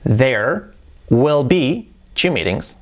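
very slow, careful teacher model; slow model sentence. Shown as a demonstration. Teacher models the future sentence for students, slowly. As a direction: spell it out slowly for learners. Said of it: "¿Cómo sería eso?".

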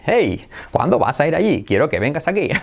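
lightly voiced cartoon bear, bouncy tune; a hint of cartoon bear in swooping intonation; oso Yogi. Teacher jokes about English tune, hinting cartoon bear. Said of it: "hablaríamos así como el oso yogi".

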